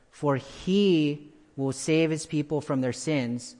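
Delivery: "he" stressed, said a bit slowly; emphatic he. Shown as a demonstration. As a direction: lean on the word "he". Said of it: "the he there is emphatic".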